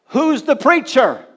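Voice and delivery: high, loud, drawn-out question; urgent question. Retold or imitated. Preacher acting out Bonnke's question about the revival, urgent. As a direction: demand it from the crowd, each word stretched.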